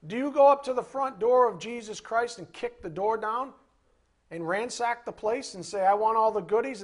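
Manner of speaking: mocking entitled. Mocking a rude entitled visitor.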